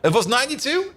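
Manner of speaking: ordinary delivery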